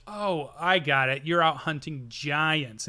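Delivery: slow, stretched and mock-conspiratorial; drawn-out knowing remark. Drunk gnome winking at the fighter, drawing words out knowingly. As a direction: draw out GIANTS as if winking. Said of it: "he says it really loud and he says the word really long".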